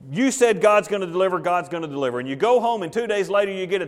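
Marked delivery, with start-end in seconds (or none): 0.1-2.2 mildly conceding, settling down at the end. Acted. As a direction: repeat it back as one who accepts the reproof. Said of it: "Jehoash leaves that day and says".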